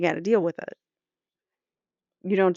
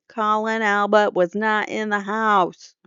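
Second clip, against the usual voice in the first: slow, exaggerated Boston accent; mock Boston accent reading a statement. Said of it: "that was a terrible Boston accent".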